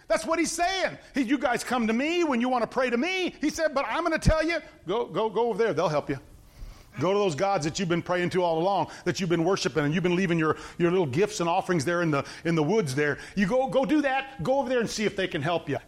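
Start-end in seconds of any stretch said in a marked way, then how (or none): 1.2-3.3 higher-pitched mock complaint; sarcastic. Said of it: "he's being sarcastic". 3.7-15.8 sarcastic. Acted. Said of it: "God is being sarcastic".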